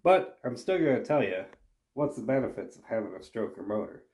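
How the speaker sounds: stuffy nose from a cold; nasal sick voice. Real, not acted. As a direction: speak through a blocked nose. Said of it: "nasally voice that I may have".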